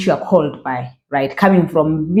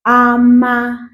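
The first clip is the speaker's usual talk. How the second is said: slower; 5 semitones higher than usual. Shown as a demonstration.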